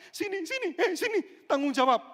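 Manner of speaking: loud, high whiny yell; high loud demand. Acted. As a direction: demand it like a wounded child. Hurt person demanding accountability. (menuntut dengan teriakan melengking)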